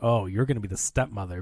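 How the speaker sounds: ordinary talk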